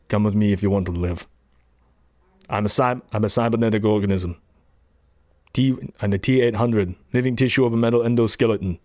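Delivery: lightly voiced Austrian accent, flat and heavy; a hint of an Austrian Terminator; Austrian-accented robot talk; Arnold Schwarzenegger impression. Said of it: "I'll do real Arnold now".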